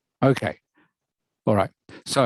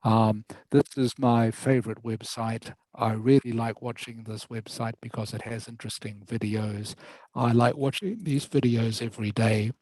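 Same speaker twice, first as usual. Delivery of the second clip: every sentence the same tone, start to finish; flat reading voice. Shown as a demonstration. Teacher demonstrating to student how reading aloud sounds flat. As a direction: read it like a monotone list, no ups and downs. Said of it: "See what I mean? If I start talking like that".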